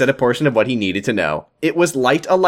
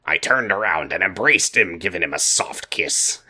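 George pirate voice; 3 semitones lower than usual. Acted. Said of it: "do a little of George".

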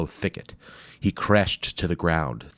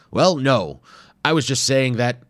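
higher, louder defensive fluster; flustered professor; 7 semitones higher, 7 dB louder than usual. Acted. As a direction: backpedal quickly, caught out. Wimple caught out, defensive.

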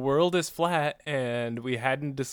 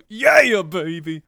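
Austin Powers; 3 semitones higher, 7 dB louder, much slower than usual. Retold or imitated. Co-host imagining a woman waking up as a film spy, hammed-up impression. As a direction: burst out with a hammed-up British swinger yell. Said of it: "Just straight Mike Myers, Austin Powers".

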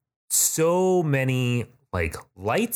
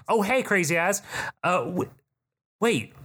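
high, startled double take; a lightly voiced warrior woman, surprised; 9 semitones higher than usual. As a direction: catch yourself mid-greeting. Warrior woman recognizing player.

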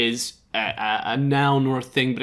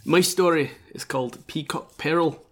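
put-on Scottish accent. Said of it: "I'm actually gonna drop the accent now".

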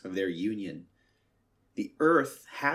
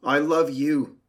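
higher and louder, swelling like the sea; 7 semitones higher, 8 dB louder than usual. Acted. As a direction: lift it up, bright and loud, as the sea. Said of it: "said the sea to the earth".

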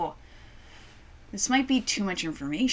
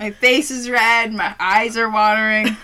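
laughing; 9 dB louder than usual. Real, not acted. Eyes watering, laughing.

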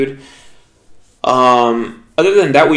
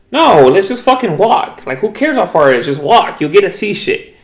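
raised, urging retold voice; imitating an insistent friend; 5 semitones higher than usual. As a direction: act out a friend urging you along. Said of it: "And Kat was like".

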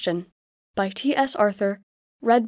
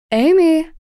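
put-on mother speaking her child's name, raised; gently calling a name; 7 semitones higher, 6 dB louder than usual. A narrator's reading. Mother finds Amy at the window and calls her name.

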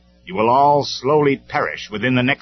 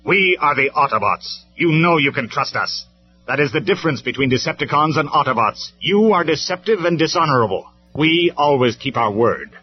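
loud, high, forceful rebuke; harsh; 8 semitones higher, 9 dB louder than usual. A narrator's reading. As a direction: rebuke the enemy with proud authority. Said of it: "Optimus Prime's voice was harsh".

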